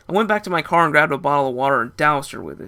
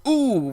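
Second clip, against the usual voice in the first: wincing ooh; 10 semitones higher, 4 dB louder than usual. Retold or imitated. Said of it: "my friend said as he laughed".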